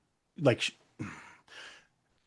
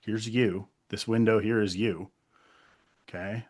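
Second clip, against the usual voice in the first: softer, calming imitation of a partner; retold reassurance; 3 semitones lower, 6 dB quieter than usual. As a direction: gently talk someone down from panic, as retold. Partner calming the speaker's panic.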